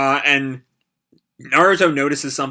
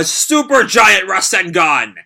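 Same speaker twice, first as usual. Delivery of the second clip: slow, loud amazed exclaim; excited; 5 semitones higher, 6 dB louder, slower than usual. Real, not acted. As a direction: call it out in awe. Viewer excited by the huge attack.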